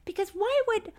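loud, worked-up podcast outrage; furious. Real, not acted. Co-host objecting that it was brought up, furious. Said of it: "I'm so furious".

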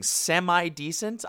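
high, drawn-out incredulous question; mock-offended disbelief. Real, not acted. Throwing a commenter's insult back, incredulous. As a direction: stretch it out, as if insulted.

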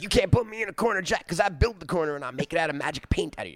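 lightly voiced rambling madman; ranting Charles Manson. Imitating Manson's nonsense in interviews, lightly mocking rant. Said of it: "a guy going like".

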